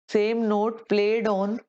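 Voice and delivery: very slow, each word drawn out; slow dictation. Shown as a demonstration. Teacher dictating notes to the class, very slowly. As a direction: give them time to write it down. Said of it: "same note".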